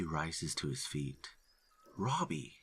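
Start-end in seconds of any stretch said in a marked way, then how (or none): 2.0-2.6 calling out his name across the clearing; shout. Acted. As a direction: call out to him sharply. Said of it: "I shouted at him".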